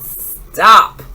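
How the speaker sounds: sharp loud shout of stop; parents yelling. A narrator's reading. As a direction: yell it to halt the child.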